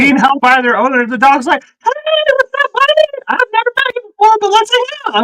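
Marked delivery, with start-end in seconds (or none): 1.6-5.2 high, fast, eager dog voice; goofy dog voice. Retold or imitated. Dog greeting a stranger in a high goofy voice.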